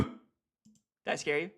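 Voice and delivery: slow, very soft taunt; teasing whisper. Pretend. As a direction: tease them quietly. Teasing after the boo.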